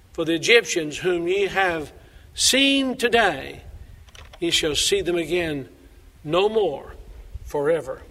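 measured, solemn Bible reading; scripture reading. Acted. Reads scripture passage aloud.

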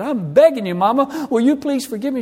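high, loud, pleading as if near tears; desperate begging. Retold or imitated. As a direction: beg her forgiveness with rising urgency. Tearful plea to his mother.

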